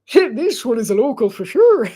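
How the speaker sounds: put-on Irish accent. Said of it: "it's probably a deeper Irish accent".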